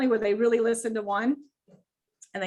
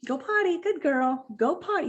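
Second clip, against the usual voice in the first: higher, sing-song go potty; praising command; 5 semitones higher than usual. Shown as a demonstration. Trainer praising puppy mid-pee, higher cheerful. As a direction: cheer go potty as she squats. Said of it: "Wait till they actually squat".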